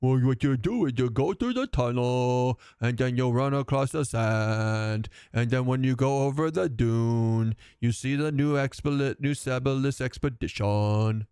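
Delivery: lumbering dim ogre narrating directions. Pretend. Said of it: "Gotta do the ogre voice".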